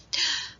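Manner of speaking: quick startled intake of breath; sharp gasp. A narrator's reading. Squirrel startled by Hedgehog, sharp gasp. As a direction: gasp in surprise. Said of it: "gasped Squirrel".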